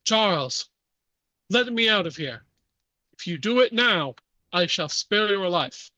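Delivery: put-on insistent French-accented plea-bargain; heavy French accent. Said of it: "heavy French accent".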